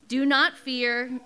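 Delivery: slow, loud do not fear; stress on do not fear. Acted. Preacher urging listeners facing rejection, slow and firm. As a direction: press each word of do not fear. Sermon refrain emphasised.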